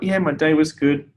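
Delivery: mildly put-on polite small talk; lightly acted politeness; polite reply. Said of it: "say something polite".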